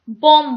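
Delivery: "बॉम्ब" ending on the m sound; silent B. Shown as a demonstration. Teacher showing children the silent letter, "बॉम्ब" with no final b. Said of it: "ये small वाला जो बी है ये silent है".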